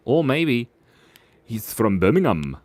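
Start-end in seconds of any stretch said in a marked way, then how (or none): 1.4-2.6 badly faked Birmingham accent; half-hearted Birmingham twang; attempted Birmingham accent. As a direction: have a joking go at a Birmingham accent. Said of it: "Can you do a Birmingham accent".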